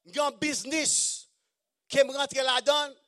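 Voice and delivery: loud, high eager salesman; a touch of a pushy businessman pitching; mock eager pitch. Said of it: "Il dit".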